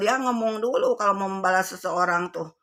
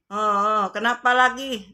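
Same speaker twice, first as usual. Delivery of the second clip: exasperated retold question; 3 semitones higher, 6 dB louder, slower than usual. Mother asks crying child again.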